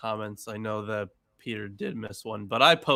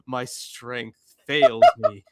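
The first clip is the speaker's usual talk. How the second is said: impassioned oratory; 9 dB louder, slower than usual. Acted. Mock preacher reading psalm.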